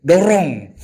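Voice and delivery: loud, blunt order; forceful command. Retold or imitated. Quoting the Prophet's blunt order, loud. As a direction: bark the one word. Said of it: "kata Nabi".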